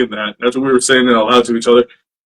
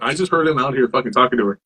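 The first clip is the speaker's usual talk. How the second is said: hushed retelling; 3 semitones lower, 6 dB quieter, faster than usual. Retold or imitated. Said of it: "I told my wife".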